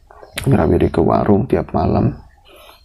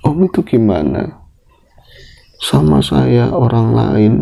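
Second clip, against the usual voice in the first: raging friend; 8 semitones higher than usual. Retold or imitated. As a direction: confront him, building to a cry. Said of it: "Akhirnya teman saya itu ngamuk". (teman mengamuk, makin tinggi dan keras)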